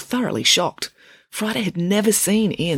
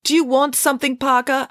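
lightly voiced, higher-pitched teacher; querying teacher; 10 semitones higher, 3 dB louder than usual. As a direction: address a hissing pupil from the front. Teacher interrupted by pupil's hissing.

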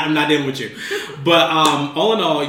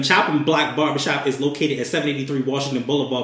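radio announcer voice. Shown as a demonstration. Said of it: "my radio voice when I read".

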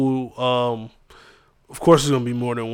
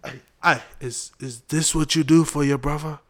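British accent attempt; 2 semitones higher than usual. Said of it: "Man, that's Skepta".

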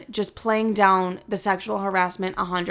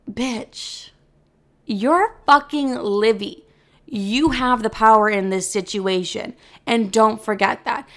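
self pep talk; slower than usual. Retold or imitated.

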